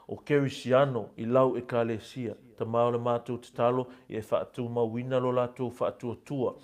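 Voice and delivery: steady, earnest prayer voice with rising swells; fervent prayer. Acted. Pastor praying aloud over the congregation, fervent. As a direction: pray over the church in a steady earnest flow.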